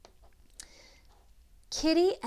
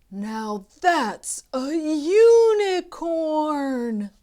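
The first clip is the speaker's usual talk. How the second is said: louder, higher excited cry; 8 semitones higher, 12 dB louder than usual. A narrator's reading. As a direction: gecko announcing the unicorn, loud excited cry. Gecko spots the unicorn.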